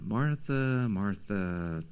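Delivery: soft, tender call, fading on the second name. Shown as a demonstration. Jesus lovingly calling to anxious Martha, tender and soft. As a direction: gently call her name, like a loving rebuke. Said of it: "I always try to picture Jesus".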